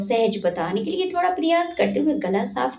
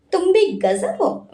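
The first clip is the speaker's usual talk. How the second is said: smiling; 8 semitones higher than usual. A narrator's reading. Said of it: "Virat मुस्कुराकर बोला".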